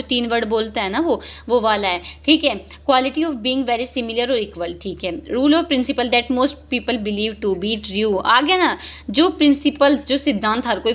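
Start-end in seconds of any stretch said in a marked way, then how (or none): 2.9-4.8 slow reading. Shown as a demonstration. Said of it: "reading options slowly". 5.2-8.2 slow reading. Shown as a demonstration. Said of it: "reading options slowly".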